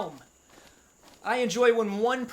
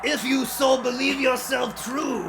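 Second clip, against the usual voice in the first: Watto voice; 3 semitones higher than usual. Acted. Keeps reading game lines as Watto.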